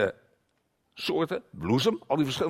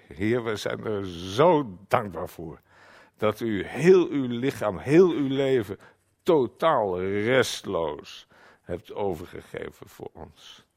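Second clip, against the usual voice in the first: prayer; 4 semitones lower, 4 dB louder, slower than usual. Real, not acted. Models a prayer of thanks.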